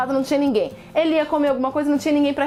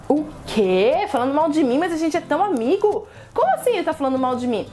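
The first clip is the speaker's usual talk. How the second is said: shocked crab. Acted. Crab reacts to gossip.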